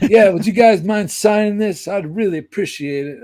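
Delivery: a pleading fan; eager fan. Retold or imitated. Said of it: "Clifford asking for signatures".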